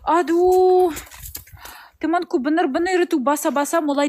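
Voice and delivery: Russian accent in Indonesian; learner's Russian-accented Indonesian; foreigner speaking indonesian. Real, not acted.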